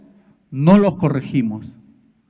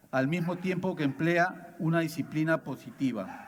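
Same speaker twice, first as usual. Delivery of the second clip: much softer reading from a text; reading aloud; 8 dB quieter than usual. Acted. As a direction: read the passage out quietly. Reads a passage aloud.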